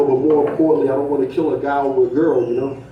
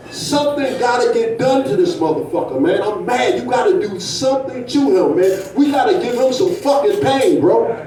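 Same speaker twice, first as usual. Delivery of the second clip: higher, heated push for revenge; angry friend demanding revenge; worked-up demand; 5 semitones higher than usual. Retold or imitated. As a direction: get worked up and insist. Jeff angry, wants revenge.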